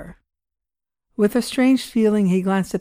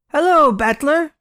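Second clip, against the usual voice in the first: lightly voiced old man; 8 semitones higher, 5 dB louder than usual. Old man greets in the dark.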